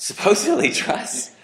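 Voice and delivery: SUPPOSEDLY stressed high then falling; emphatic echo. Shown as a demonstration. Preacher echoing the congregation's answer, stressing "Supposedly". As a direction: lean hard on "Supposedly". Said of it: "repeats audience answer".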